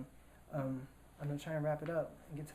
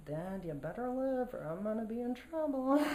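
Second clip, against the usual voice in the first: pleading thought; 8 semitones higher than usual. Retold or imitated. His private thought in ambulance.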